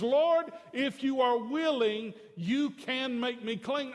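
high, loud plea of the leper; pleading cry. Acted. Leper begging Jesus to heal him, loud plea.

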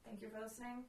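quiet, worn-out voice; losing voice. Real, not acted. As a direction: push through a tired throat. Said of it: "I'm, like, dying".

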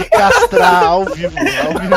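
mock outrage.

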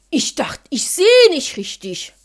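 unvoiced groaning whisper; father groaning in disbelief. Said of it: "stöhnte der mir entgegen".

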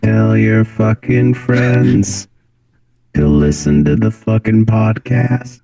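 slow, even robot monotone. Pretend. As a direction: drag each word like a machine. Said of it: "Let me hear that robot voice again real quick".

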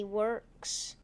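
lightly voiced scheming villain; villain gloating over captives, lightly played; bad guy voice. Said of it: "He said in a bad guy voice".

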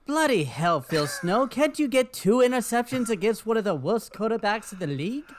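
loud, exasperated fake English accent; a hammed-up British grumble; mock British accent. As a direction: rant about the coach in a put-on British voice. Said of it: "a lovely British accent from him".

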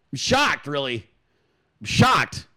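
mock shock, deadpan; sarcastic. Real, not acted. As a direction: pretend to be shocked. Sarcastic about Biden lying.

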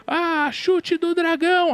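high, slow anime battle cry. Retold or imitated. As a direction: shout the move name like an anime hero. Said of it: "sabe a voz de anime?". (grito de golpe de anime, agudo e lento)

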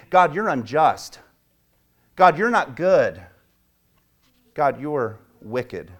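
slow, deliberate charges against God; imitating slow accusation. Grumbler turning against God, slow and bitter. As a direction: spell out each charge with heavy weight. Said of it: "You're now angry at him".

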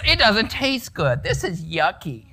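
a grown grumbler's moaning whine; mock whine. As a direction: pout over the bad water. Voicing grumbling Israelites.

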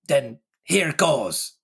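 put-on slow, gruff oath from an old sailor; Morgan swearing. Morgan defying Silver, slow gruff oath. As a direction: growl it out like a threat. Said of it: "said Morgan with an oath".

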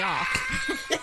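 breaking into high, laughing words. Real, not acted. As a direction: crack up mid-sentence. Bursting out laughing.

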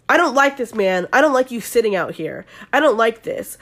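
punchy, mildly worked-up complaint; retold irritation. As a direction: imitate a jealous guy objecting. Retold jealous guy confronting rival.

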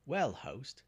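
high, loud hail to the host; shouted greeting across an inn. A narrator's reading. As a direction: call out boldly for service. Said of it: "he shouted".

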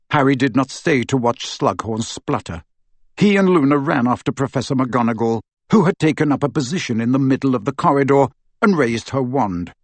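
ordinary delivery

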